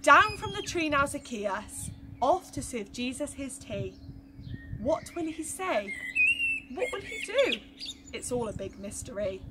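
put-on lively storytelling for children; story narration. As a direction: tell it to the little ones with wonder. Reading a Bible story to children.

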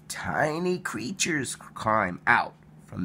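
gasp, then a hushed whisper; an awed whisper after a gasp. Acted. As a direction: share the secret of hatching. Larvae hatching, read with wonder.

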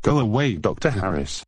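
sing-song parroting, rising on the name; mocking copycat voice. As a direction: echo it back teasingly. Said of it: "stop copying me".

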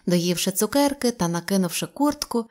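usual speaking voice

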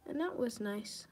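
dry fake approval; sarcastic. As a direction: say it as a sarcastic lie. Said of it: "Guys, I'm being sarcastic".

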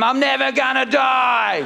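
a slow shouted Queen declaring she won't die; mock Queen. Comic doing the Queen vowing to outlive her son, slow shout. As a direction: ham up the defiant old Queen.

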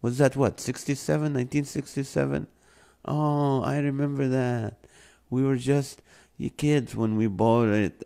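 talking to husband. Retold or imitated. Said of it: "I'm like".

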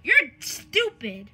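slow, drawn-out insult; odd drawl. Pretend. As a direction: drag the words out oddly. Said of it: "Why are you talking like that?".

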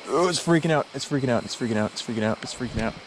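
excited burst fading to quiet; excited to hushed. Real, not acted. Fish escaping, excited commentary.

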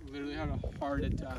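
high, breathless gasp of a scare; breathless fright. Real, not acted. Friend reliving the ducks bursting out, breathless and shaken. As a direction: gasp it out like your heart just jumped.

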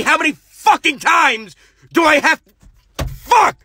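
very high screaming cut; furious director. Acted. Director storms in yelling cut at the actor. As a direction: explode at the actors.

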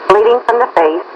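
fast dispatch page; urgent firefighter radio. Real, not acted. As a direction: rattle off the call like a dispatcher. Dispatcher paging an ambulance call.

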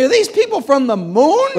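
high, loud, laughing disbelief; can't believe these people; incredulous aside. Retold or imitated. Scalia to the judge about the lawyers, laughing disbelief.

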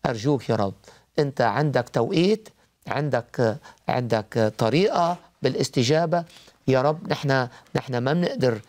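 earnest spoken prayer; praying aloud. Acted. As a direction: pray it from the heart. Leads prayer for caller.

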